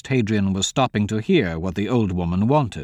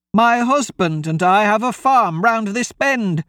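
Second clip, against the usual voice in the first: put-on high, louder-edged pleading old woman; frightened old woman; 10 semitones higher, 3 dB louder than usual. Old woman begs travellers for help, frightened.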